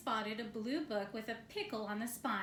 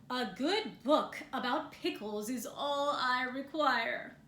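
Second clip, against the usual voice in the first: louder bear voice; 4 dB louder than usual. Acted. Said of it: "Bear's voice was getting louder".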